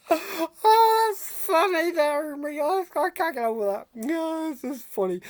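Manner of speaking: can't stop laughing at the punchline; laughing at own joke. Acted. Old Wendell cracking up at his own farmer joke, laughing.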